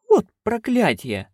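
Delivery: gasped, high and slow; a shocked gasp of a curse. Acted. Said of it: "ахнула она".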